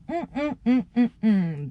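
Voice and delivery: short rhythmic hums; hummed "mm" beat. Retold or imitated. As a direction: hum along in little bursts. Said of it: "and I go".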